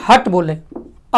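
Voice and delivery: slow teacherly contrast; slow classroom emphasis; slow explanation. Shown as a demonstration. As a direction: stretch it out so students catch the vowel. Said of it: "देखिए यहाँ क्या बोले आप?".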